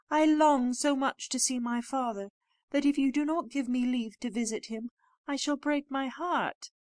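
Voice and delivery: high-pitched, heartfelt plea; pleading. A narrator's reading. Beauty pleads to visit her father.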